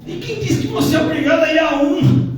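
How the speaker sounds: high, loud complaining voice; hammed-up complainer, ending in a shout; mock grumbling churchgoer. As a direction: whine about two services, rising to a shout.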